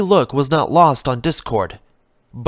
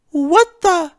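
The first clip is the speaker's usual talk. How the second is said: higher, louder startled gasp of a question; surprised; 14 semitones higher, 4 dB louder than usual. Acted. Fluttershy finds the vase unbroken, startled and high. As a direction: caught off guard, high and puzzled. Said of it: "she was surprised".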